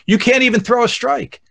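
heckling. Retold or imitated. Dad catching heckles his kids as they pitch, mock heckling. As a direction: needle the pitcher from behind the plate. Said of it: "I start heckling, going".

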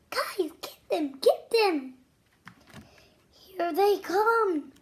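loud urgent cheer; excited. Acted. Loud urgent cheer, urging kids to catch them. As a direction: build the excitement of the chase.

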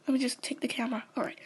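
soft unvoiced aside; whispered aside. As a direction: murmur it off to the side. Host reaches for the camera.

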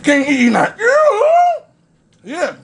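talking while chewing; speaking around food; mouth partly full. Real, not acted. Seen 1: Fork taken out at -1; food bits show while talking.

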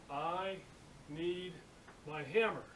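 spaced out word by word, mildly; mime-like delivery, a pause after each word; word-by-word signing. Retold or imitated. Steel worker signing down to his apprentice, word by word.

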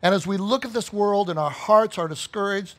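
measured prayer with pauses between phrases; earnest prayer. Real, not acted. Preacher leading congregation in thanks to God, earnest prayer. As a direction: address God reverently, mostly calm, pressing key words.

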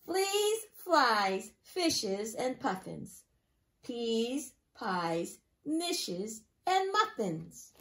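lively, singsong picture-book reading; reading to children. Acted. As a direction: read it to a class of small children. Teacher reads picture book aloud.

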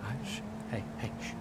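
soft whispered shush; calm him down in a whisper; hushing. Real, not acted. Hushing someone.

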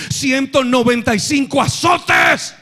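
slow thundering pulpit shout; preaching shout. Acted. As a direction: cry out the number of lashes. Preacher thunders Paul's lashes.

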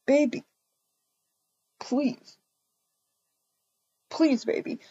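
quiet, small begging; soft pleading. Acted. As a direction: plead softly with her. Boyfriend begs after being thrown out.

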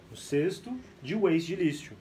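ordinary talk

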